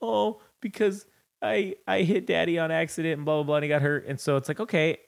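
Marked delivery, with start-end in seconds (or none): 0.0-4.1 a touch of tearful hesitation, retold; mock crying child. Daughter confessing she hit Daddy by accident, mock tearful. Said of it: "was crying".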